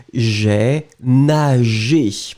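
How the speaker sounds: very slow, drawn-out "j'ai nagé"; slow model pronunciation. Shown as a demonstration. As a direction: teach "j'ai nagé" syllable by syllable, stretched out. Models the verb form for students.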